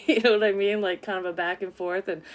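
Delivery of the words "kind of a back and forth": ordinary talk, nothing marked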